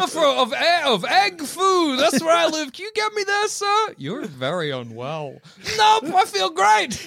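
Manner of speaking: goofy high-pitched alien voice; Egg Mondubot voice. Acted.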